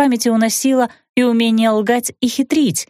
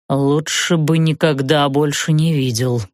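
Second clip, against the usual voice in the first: мрачно; 4 semitones lower than usual. Acted. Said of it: "мрачно отозвался он".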